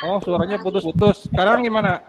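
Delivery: choppy robotic audio; breaking-up robot voice on a bad line. Real, not acted. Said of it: "Suaranya kayak robot".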